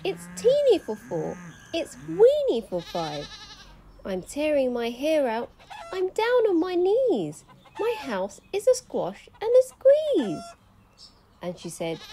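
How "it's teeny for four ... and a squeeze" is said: put-on high, loud despairing old lady; crying old lady. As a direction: wail like a frazzled old lady. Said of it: "The little old lady cried".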